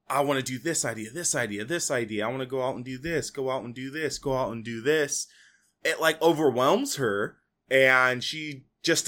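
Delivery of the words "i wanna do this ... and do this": imitating someone racing through ideas, quick and a little softer; rapid idea-spouting. Podcaster imitating an aunt flooded with ideas, rapid-fire. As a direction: rattle off a mock list in quick repeats.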